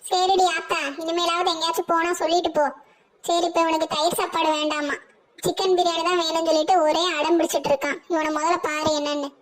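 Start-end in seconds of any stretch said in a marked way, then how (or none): none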